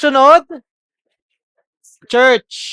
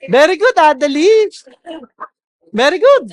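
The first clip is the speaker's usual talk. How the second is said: 1 approving praise; 6 semitones higher, 4 dB louder than usual. Real, not acted. Praising a student's answer.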